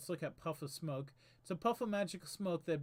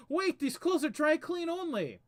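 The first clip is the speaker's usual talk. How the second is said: knight voice; 11 semitones higher, 7 dB louder than usual. Acted.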